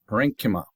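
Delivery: parenchyma with ch said as k; hard K pronunciation. Shown as a demonstration. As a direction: say "parenchyma" as puh-RENK-ih-muh. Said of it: "It's a C H is a K".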